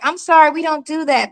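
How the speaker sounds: politely sorry, smiling through it; with a smile. Retold or imitated. Imitating a polite clerk refusing with a smile. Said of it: "they're gonna say it with a smile".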